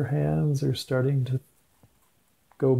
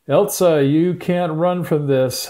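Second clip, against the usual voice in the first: calling out; 4 semitones higher, 5 dB louder than usual. Acted. Villain Hans calls after Elsa.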